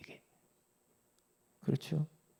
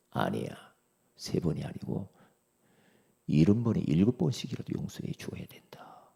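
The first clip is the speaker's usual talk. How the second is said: lower, hushed answer fading to a whisper; 3 semitones lower than usual. Acted. Jesus answering Peter, hushed and gentle.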